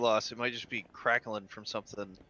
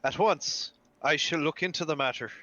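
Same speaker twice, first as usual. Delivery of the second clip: higher, louder in-character reply; Archie; 4 semitones higher, 4 dB louder than usual. Acted. Archie answers the clergyman, second take, raised character voice. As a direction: raise it into an eager formal promise. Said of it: "Or maybe".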